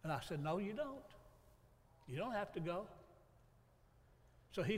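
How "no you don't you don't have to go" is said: quietly gives in, softer; a father softly giving in to his son. Retold or imitated. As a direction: let it drop, softer.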